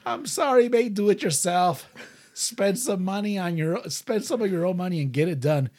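S0 redoes the singer's rant in his voice; rock singer impression. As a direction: ham up the gruff Aussie rocker. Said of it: "rock singer voice".

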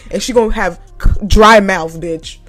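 slap her in your head, half laughing; mock furious threat. Cashier fuming inwardly at a nagging coworker, mock angry. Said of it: "that's all I said in my mind".

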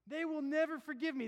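preached sinner's dread. Retold or imitated. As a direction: push the fear out loud. Sinner's fear, loud take.

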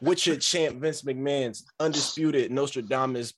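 announcing himself as champ; wrestling promo. Acted. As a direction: introduce yourself like a wrestling champ. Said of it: "The promo".

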